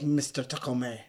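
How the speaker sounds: lightly voiced movie villain; a hint of the villain's odd pronunciation; Alan Rickman. Co-host lightly imitating how the villain says a name, oddly intoned. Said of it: "He'd be like".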